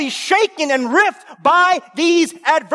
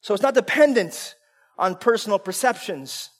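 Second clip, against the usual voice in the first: ordinary delivery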